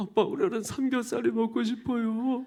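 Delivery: put-on high, plaintive, begging child's voice. Acting out kids asking dad for 삼겹살: imitating pleading kids. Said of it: "애들이 애절하게".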